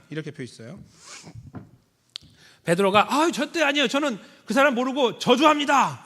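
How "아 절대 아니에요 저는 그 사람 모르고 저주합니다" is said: high, loud frantic denial; hammed-up panicky Peter; desperate denial. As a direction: deny him with everything you have. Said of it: "이렇게 말했잖아요".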